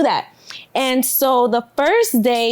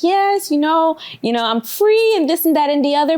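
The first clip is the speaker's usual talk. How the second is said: happy parent; 5 semitones higher than usual. Acted. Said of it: "they're kinda happy in the beginning".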